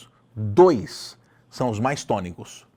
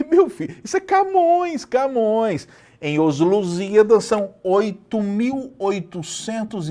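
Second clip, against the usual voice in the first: much higher and louder "Camões"; excited exclamation; 8 semitones higher, 3 dB louder than usual. Real, not acted. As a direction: exclaim with teasing disbelief, pitch up. Mock outrage praising Camões.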